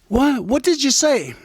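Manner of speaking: high, loud and disbelieving; the pitcher can't believe what he heard; baffled pitcher. Retold or imitated. Pitcher baffled, asks again.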